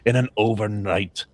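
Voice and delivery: attempted Russian accent. Host reads a fantasy book blurb on request, attempted Russian accent. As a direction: read it like a movie trailer with a shaky Russian accent. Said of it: "do this in a Russian accent".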